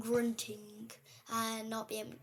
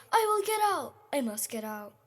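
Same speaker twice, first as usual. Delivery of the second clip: mumbled vow; 2 semitones higher, 7 dB louder than usual. Acted.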